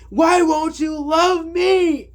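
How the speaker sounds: high, loud, drawn-out mock wail; hammed-up, possessed-sounding lovesick plea; imitating unhinged wail. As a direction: stretch every word into a desperate cry. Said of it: "kinda like a demonic, uh, tone in her voice".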